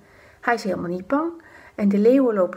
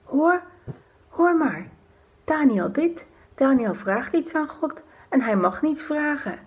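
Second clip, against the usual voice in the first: higher excited whisper; gleeful whispering plotters; 5 semitones higher than usual. Acted. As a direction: point and whisper with sly glee. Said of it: "Ze fluisteren". (fluisterende samenzweerders)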